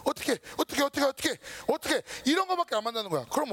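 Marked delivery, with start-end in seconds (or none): 0.0-2.0 higher-pitched, repetitive mock fretting; acted worry. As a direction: act out a mild panic, repeating it over and over. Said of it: "근심밖에 안 만들어". (안절부절못하며 걱정하는 척)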